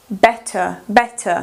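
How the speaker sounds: teacher showing the schwa at the end of "better". Shown as a demonstration. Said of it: "O schwa".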